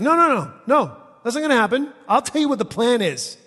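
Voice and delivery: loud, high, overriding objection; bossy protest. Retold or imitated. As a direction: cut in and take charge, imitating a know-it-all. Acts Peter overruling Jesus.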